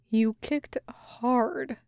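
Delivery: slow words breathed out, muffled; muffled exhale. Acted. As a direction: let it sag out on a muffled breath. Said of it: "comes out as a muffled exhale".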